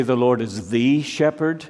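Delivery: "the" said as a full, weighted THEE; stress on THE. Shown as a demonstration. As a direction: lean on "the" before shepherd. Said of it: "He did not say".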